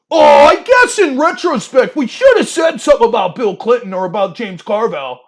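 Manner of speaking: mock regret. Mimicking people admitting fault in retrospect, mock regretful. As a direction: play up a belated admission, stretching the opening.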